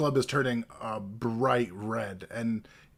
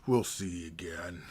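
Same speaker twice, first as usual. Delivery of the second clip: quiet goblin; 6 semitones lower, 9 dB quieter than usual. Acted. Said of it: "and he's like".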